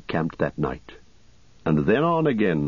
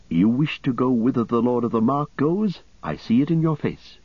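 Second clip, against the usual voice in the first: lightly voiced young rider, pitched higher; hooded young rider, hushed and earnest, voiced higher; 5 semitones higher than usual. Dernhelm voiced by narrator.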